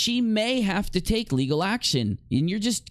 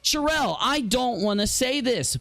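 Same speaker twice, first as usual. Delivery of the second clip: mock mind-controlled pleading; 3 semitones higher than usual. Pleading with Sherelle to stop controlling him, mock distressed. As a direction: beg as if someone's puppeteering your mouth. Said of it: "Stop making me talk like this".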